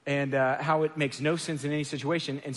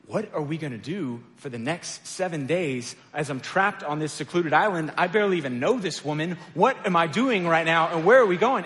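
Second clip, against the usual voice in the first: retold panic. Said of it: "I was basically this".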